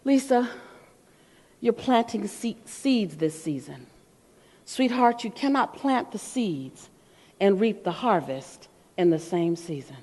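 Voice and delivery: slow, soft, soothing mentor voice; calm. Retold or imitated. Mentor calming the tired speaker in the van, soft and slow. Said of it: "John looked at me all calm and goes".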